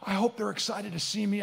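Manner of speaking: soft, choked-up soldier, lightly imitated; quietly moved, with a halting start; emotional. Soldier asked about seeing his family, emotional. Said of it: "He gets emotional".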